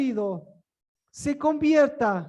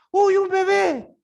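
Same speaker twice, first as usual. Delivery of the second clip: higher, louder, slow fond exclamation; God's fond voice; 6 semitones higher, 7 dB louder than usual. Retold or imitated. God in heaven spotting a crying baby, fond and slow. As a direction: coo over a newborn, drawn out.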